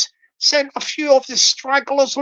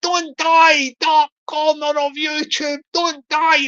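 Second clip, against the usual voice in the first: raised, pleading mock cry; mock scream; 4 semitones higher than usual. Stragglers begging the dying corner to live, mock screaming. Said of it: "They're screaming".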